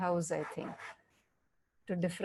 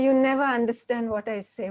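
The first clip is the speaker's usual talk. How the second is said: louder, re-enacted marital reproach; accusing husband; 6 dB louder than usual. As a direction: act out a frustrated husband's accusation. Husband accuses in acted quarrel.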